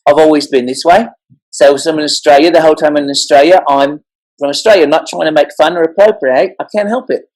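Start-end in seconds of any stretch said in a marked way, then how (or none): 1.5-7.2 lightly put-on Australian accent. Shown as a demonstration. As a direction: slip into an Australian accent as if a local. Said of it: "I can do any accent".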